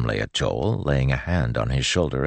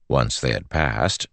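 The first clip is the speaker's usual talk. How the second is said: plain reading voice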